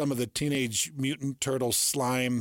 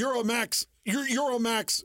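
radio live read; 9 semitones higher than usual. Retold or imitated. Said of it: "So you're like".

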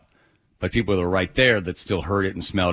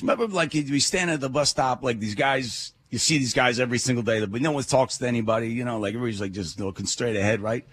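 put-on New York accent; 3 semitones higher than usual. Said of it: "in this heavy New York accent".

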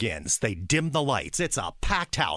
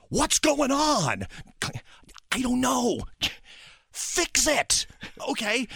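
tense exchange; 12 semitones higher, slower than usual. Retold or imitated. Hurried exchange with game day guy.

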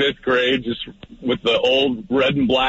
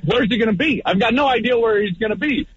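high, anxious retold thought; panicked; 9 semitones higher than usual. Quarterback lost track of his receiver, panicked. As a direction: fret aloud in a raised pitch. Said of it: "now I'm panicked".

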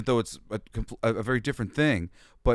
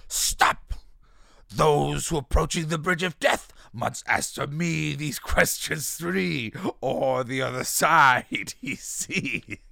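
a hint of a little girl playing the bridge keeper; slow, mangled bridge keeper lines; daughter as bridge keeper; slower than usual. Dad imitating his daughter reciting the bridge keeper, slow childlike mock. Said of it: "she stops me in the kitchen and she goes".

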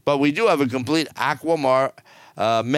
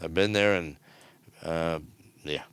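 fading softer each time, tired; weary trailing off; 9 semitones lower, 7 dB quieter than usual. Real, not acted. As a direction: let it die away, unimpressed. Weary repeated "I've been there.

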